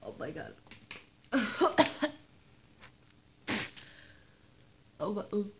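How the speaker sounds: choking on a mouthful of cinnamon; mouth full. Real, not acted. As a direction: talk through a full mouth.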